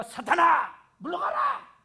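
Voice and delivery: high, loud rebuke, the last word flung up in a shriek. Shown as a demonstration. Preacher loudly rebukes a deaconess as if casting out Satan. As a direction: cast the devil out with full force. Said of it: "권사님한테 내가".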